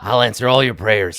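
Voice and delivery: loud, boastful false god; Wongo voice. Acted. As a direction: brag like a jealous idol. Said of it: "Wongo's like".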